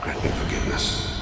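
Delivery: breathy, voiceless plea for forgiveness; whispered prayer. Acted. Assassin's whispered prayer before a hunt.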